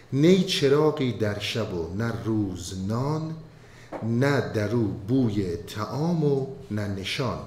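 slow, measured recital of classical verse; poem recitation. Acted. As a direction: chant the couplets slowly, with weight.

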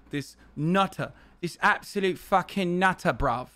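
lightly put-on British slang accent; mock British accent. Imagining himself as Corbyn with a nutter brother, mock British accent. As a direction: slip into a mild mock-British voice. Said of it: "my British fucking accent".

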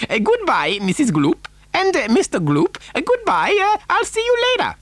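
high, dithering eccentric farewell; Mister Wonka. A narrator's reading. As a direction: say goodbye haltingly, pitch climbing. Wonka bids the Gloops goodbye.

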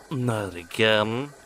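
slow dejected moan; a touch of weary moan. Acted. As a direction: sigh it out defeated. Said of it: "he moaned".

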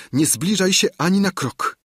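high, loud cry of warning; the woman shouts at the man to stay away, frightened; shouting. A narrator's reading. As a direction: stop him dead with a high shout. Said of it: "krzyknęła".

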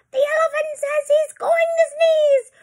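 very high, loud squawking parrot; shrieking parrot. Acted. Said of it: "With a shriek".

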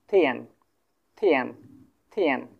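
থিয়ান as a separate, clear model syllable; teacher repeating first-tone থিয়ান. Shown as a demonstration. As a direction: say থিয়ান crisply for learners to copy. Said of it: "সম্পূর্ণ একটা first tone".

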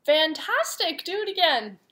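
shouted. Acted. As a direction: cheer him on to tire him out. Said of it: "Elizabeth shouted".

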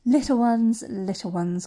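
calling to the slaves with grand emotion; called out. Acted. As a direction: call out, then coo it. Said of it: "called the woman".

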